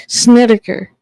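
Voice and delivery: "Snedeker" said as SNET-ih-ker; "Snedeker" in three syllables, stressed on SNED; corrected pronunciation. Shown as a demonstration. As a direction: say "Snedeker" with plain s and short e. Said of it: "is how it's pronounced".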